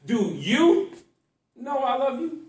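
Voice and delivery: rising, doubtful "love"; questioning tune. Shown as a demonstration. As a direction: ask "know I love you" as a real question. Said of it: "Watch this".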